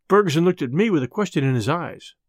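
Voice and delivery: plain reading voice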